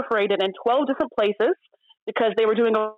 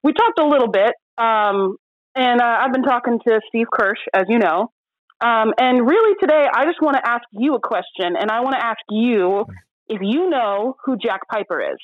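muffled by gauze in mouth; 4 dB louder than usual. Real, not acted. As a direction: speak around a mouthful of gauze. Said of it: "have gauze in my mouth".

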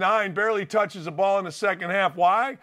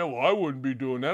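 much lower, softer stuffy commentator voice; mock Mark Jackson; 9 semitones lower, 4 dB quieter than usual. Host mocking Mark Jackson's comment, low and smug. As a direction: drop low and play the smug pundit. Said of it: "Mark Jackson said".

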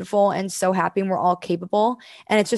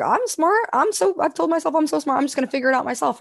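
cocky self; 7 semitones higher than usual. Retold or imitated. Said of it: "And I was like".

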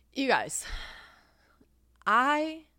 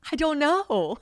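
much higher and louder, a mock wail; loud exasperated I don't know; 10 semitones higher, 8 dB louder, slower than usual. To girlfriends asking about long distance, a loud mock wail. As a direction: burst out with it after the whisper.

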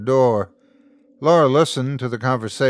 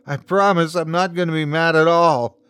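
high, pleading promise; sob-like voice; 7 semitones higher, 4 dB louder than usual. A narrator's reading. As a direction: promise as if holding back a sob. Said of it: "His voice sounded like a sob".

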